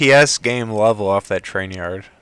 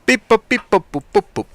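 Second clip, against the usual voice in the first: beep boop noises; 8 semitones higher, faster than usual. Pretend. Playful robot noises while browsing.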